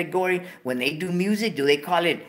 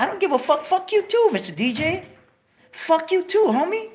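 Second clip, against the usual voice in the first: furious pretend shout; 12 semitones higher than usual. Cursing the radio DJ in an imagined studio, furious pretend shout. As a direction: blow up at the DJ.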